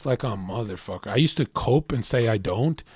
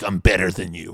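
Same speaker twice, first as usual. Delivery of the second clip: voicing the dog; 6 semitones lower than usual. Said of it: "your dog gets excited and angry".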